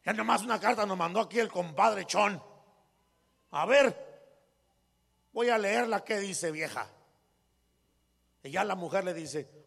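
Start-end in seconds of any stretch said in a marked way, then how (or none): 0.0-6.9 lightly voiced proud compadre; hint of a pompous husband; swaggering rich man. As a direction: sound self-important. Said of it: "hablaba así hasta con garbo".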